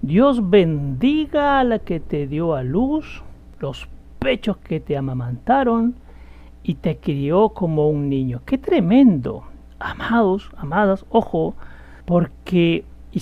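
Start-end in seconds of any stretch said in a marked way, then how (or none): 0.0-8.4 slow, drawn-out proclamation; mildly lifted voice of a woman calling out; raised voice, retold. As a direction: call it out slowly, stretching the words. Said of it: "levantó la voz y le dijo".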